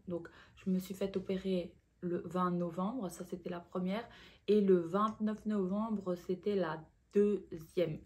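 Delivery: speaking around a dental retainer; words a bit hampered by a retainer; wearing a retainer. Real, not acted. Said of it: "Excusez-moi avec mon appareil". (parle avec un appareil dentaire)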